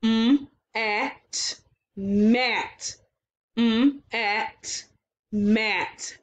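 mm, at, then mat; blending sounds. Shown as a demonstration. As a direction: join mm to at into mat. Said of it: "let's blend the sounds".

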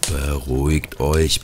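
slow, pleading little angel; gentle plea. A narrator's reading. Angel begging the quarrelling ornaments to settle down, gently. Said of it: "bat der Engel".

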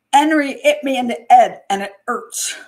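put-on loud, high Jamaican accent, H's dropped; Jamaican schoolkid. Kid complains to the teacher after a fight, in H-dropping Jamaican. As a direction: wail it as a Jamaican kid, 'Enry 'it me. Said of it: "they eliminate the H's".

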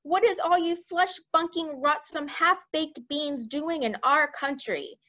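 high, slow, loud giant voice; giant yelling. A narrator's reading. Giant sneering at the humans, loud and slow. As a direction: roar it out with contempt. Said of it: "the flesh lump eater yelled".

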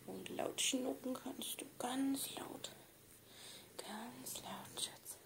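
high squeaky whispered praise; squeaky praising a dog. Real, not acted. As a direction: squeak it at the pet.

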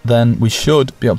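"should" picked out as a hedge; stress on SHOULD. Real, not acted. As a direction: lean on "should", setting it apart from the rest. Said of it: "Emphasis on the word should".

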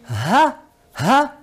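"ha" as one brief beat; short vowel. Shown as a demonstration. Teacher demonstrates fatha corta, short vowel. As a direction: say "ha" short, a single movement. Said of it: "un movimiento".

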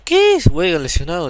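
very high, loud shocked cry; shocked outburst. Real, not acted. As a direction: blurt it out in alarm. Player injured, shock.

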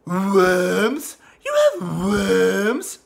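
put-on scandalised toddler, slow disbelief; Stewie Griffin impression. Stewie reacts to worms, disdainful rising question. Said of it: "Stewie Griffin from Family Guy".

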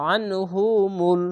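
slow chant of আনহুমুল closing on ল; throat-squeezed ain. Shown as a demonstration. Teacher joining to the lam, আনহুমুল slow and measured. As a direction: start আনহুমুল on a thick pharyngeal আ, drawn out. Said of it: "আইনটিকে গলা চিপে মোটা করে পড়বেন".

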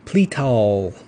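drawn-out Southern, Okie-style Pletal; Okie accent. Real, not acted. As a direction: say Pletal long, like an Oklahoma Southerner. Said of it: "I say it kinda like an Okie".

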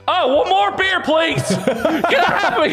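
high-pitched panicked yelp, breaking into laughter; blurted mock request. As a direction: imitate someone losing his nerve and blurting it. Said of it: "and he's like".

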